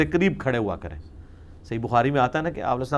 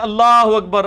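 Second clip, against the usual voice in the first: a mild call of Allah اکبر, raised and louder; followers calling out; 5 semitones higher, 7 dB louder, slower than usual. Retold or imitated. Follower calling Allah اکبر to the seated imam, mild call. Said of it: "مقتدی کہہ رہے ہیں".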